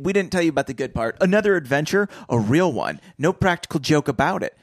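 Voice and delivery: put-on quick, keen retelling of the boys' line; eager boys. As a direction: read it like excited kids. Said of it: "they're saying".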